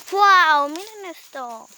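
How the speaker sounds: excited wow, then slow and hushed; amazed. Real, not acted. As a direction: gasp with delight. Showing viewers the forest.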